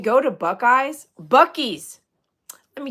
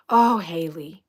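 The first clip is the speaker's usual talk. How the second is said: whispered sympathy; 4 semitones lower, slower than usual. Real, not acted. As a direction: breathe it out in sympathy. Sympathy for a viewer.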